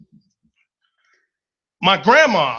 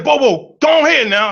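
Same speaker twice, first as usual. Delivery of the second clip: higher, louder grandma shooing; stern grandma; 6 semitones higher, 5 dB louder than usual. Retold or imitated. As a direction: send the kid off like grandma. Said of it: "She said".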